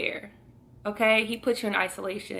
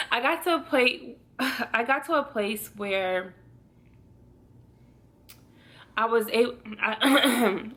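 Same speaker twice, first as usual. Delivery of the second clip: choking up; 2 semitones higher than usual. Real, not acted. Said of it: "not me getting emotional".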